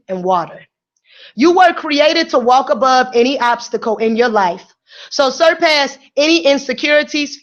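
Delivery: measured, earnest read of the day's words; motivational reading. Acted. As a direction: deliver it like a daily affirmation. Reads the words of the day.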